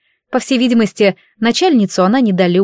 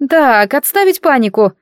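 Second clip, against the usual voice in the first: firm, raised commanding voice; stern; 5 semitones higher than usual. Acted. Timea sternly ordering the crying girls to stop panicking. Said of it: "строго сказала Тимея".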